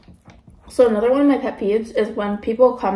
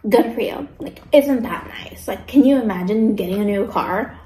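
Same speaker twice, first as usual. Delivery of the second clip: sarcastic. Retold or imitated. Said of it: "Why are you mad?".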